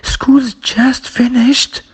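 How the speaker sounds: slow, high-pitched surprise with a full rise on "finished"; surprised. Shown as a demonstration. Teacher demonstrating to learners how to express surprise, surprised rising tone. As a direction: exclaim it in drawn-out surprise, pitch leaping up. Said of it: "to express surprise, we say".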